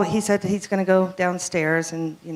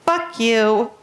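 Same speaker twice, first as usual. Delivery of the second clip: higher, louder bird impression; talking bird; 5 semitones higher, 5 dB louder than usual. Cockatoo curses the visitors, imitated bird voice. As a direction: squawk it like a cockatoo. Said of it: "And the bird goes".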